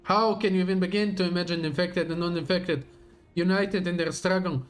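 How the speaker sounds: dramatic villain reading; grand, menacing speech to an enemy; villain monologue. Acted.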